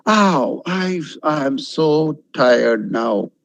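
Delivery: slow, drawn-out tired musing; mock weariness, dragged out; talking to oneself. Shown as a demonstration. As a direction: sigh it out to yourself, very slowly. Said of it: "when you speak to yourself".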